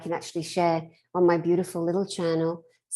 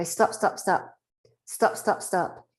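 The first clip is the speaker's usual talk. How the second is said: firm stop command; slower than usual. Shown as a demonstration. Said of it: "And I go".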